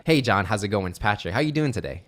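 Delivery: friendly, upbeat sales greeting; light, cheerful phone opener; positive voice. Shown as a demonstration. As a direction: greet them with a smile in the voice. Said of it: "So that's my positive voice".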